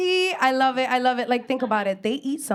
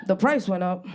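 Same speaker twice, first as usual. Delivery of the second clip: lower-pitched bodega cat talking; bodega cat impression; 4 semitones lower than usual. Bodega cat to a customer who walks in, low put-on voice. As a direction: play a shop cat addressing a customer, pitched down. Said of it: "They all sound the same. They go like this".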